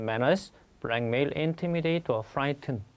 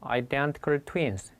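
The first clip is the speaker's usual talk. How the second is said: slow model phrase; much slower than usual. Shown as a demonstration. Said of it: "일란성 쌍둥이입니다".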